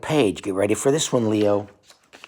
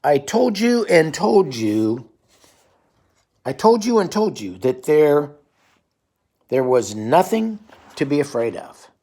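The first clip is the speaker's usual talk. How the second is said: Grover voice; 4 semitones higher, 4 dB louder than usual. Acted. Lightly voiced Grover telling the child off. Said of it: "Grover says".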